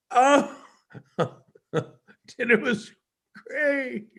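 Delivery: a hammed-up forced-cheerful praise of dinner; joking sarcastic reply. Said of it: "I'm trying to joke right now".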